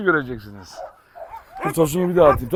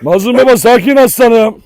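calming the dog; 3 semitones higher, 6 dB louder than usual. Real, not acted.

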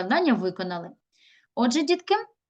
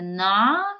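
"Надія" in three separate drawn-out pieces, На, ді, я; counting syllables. Shown as a demonstration. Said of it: "скільки складів у нас в даному слові".

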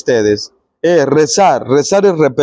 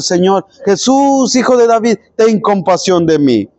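retold cry for help; 3 semitones higher than usual. Blind men calling out to Jesus, mock shout. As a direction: imitate a beggar's shout without really shouting. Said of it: "estaban gritándole".

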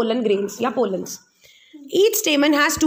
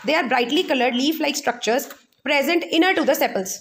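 very slow, spaced-out note dictation; dictating a textbook definition word by word; much slower than usual. Acted. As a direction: read it out slowly so students can write it down. Dictating notes slowly.

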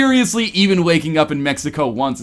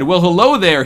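purring; 4 dB louder than usual. Acted. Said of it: "he purrs".

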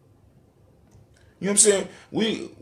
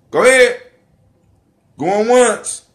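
auctioneer call; 6 semitones higher, 6 dB louder, slower than usual. Pretend. Auctioneer-style call for questions.

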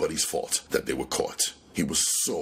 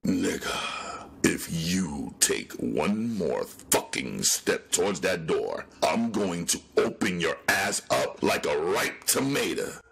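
cold threat. Acted. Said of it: "Copperhead stated coldly".

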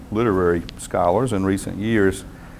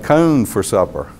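put-on "corn" said as "cone" in a rural North Carolina accent; Nash County North Carolina accent. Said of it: "my uncles and aunts in Nash County".

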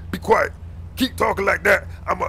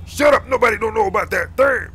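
angry snap; 3 semitones higher, 5 dB louder than usual. Acted. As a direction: cut him off hard. Officer snaps back at insult.

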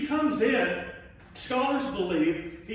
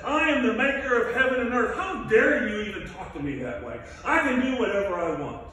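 voice of God; 3 dB louder than usual. Acted. God answers Job from the whirlwind, a commanding rebuke. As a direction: thunder down from heaven, affronted. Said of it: "God says".

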